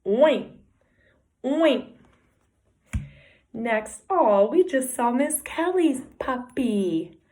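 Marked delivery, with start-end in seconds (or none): 0.0-1.9 pig oink. Shown as a demonstration. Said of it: "He says".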